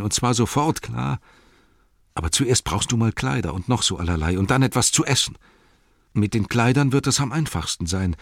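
a faithful hobbit, humble and earnest; Sam's voice. Acted. Sam speaks in audiobook.

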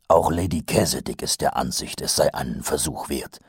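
a hint of a weary captain; gruff captain. Mumm's voice held.

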